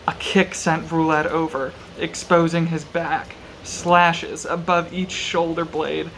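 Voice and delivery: measured audiobook-style reading; story narration. A narrator's reading. Reading a brutal sword fight from the novel aloud, measured narration. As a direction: read it out evenly, with deliberate pauses.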